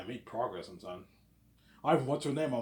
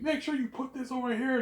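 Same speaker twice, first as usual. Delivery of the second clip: imitating bossy manager; 13 semitones higher than usual. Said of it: "He's like".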